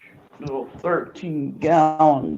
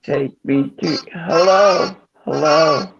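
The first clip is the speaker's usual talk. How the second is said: alien voice; 3 semitones higher than usual. Pretend. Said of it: "It's like the alien voice".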